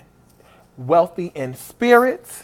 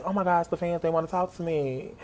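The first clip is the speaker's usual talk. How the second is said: tag; 10 dB quieter than usual. Retold or imitated. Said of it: "she was so sweet".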